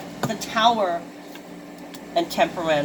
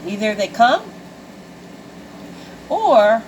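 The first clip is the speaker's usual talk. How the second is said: building louder; 3 semitones higher, 4 dB louder than usual. Real, not acted. Building emphatic point.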